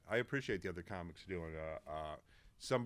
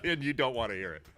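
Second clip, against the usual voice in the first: laughing; 3 semitones higher, 7 dB louder than usual. Real, not acted. Laughs while refusing.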